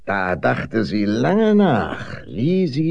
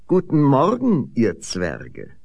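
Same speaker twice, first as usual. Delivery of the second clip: friendly greeting; 4 semitones higher, 4 dB louder than usual. Acted. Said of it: "sagte freundlich".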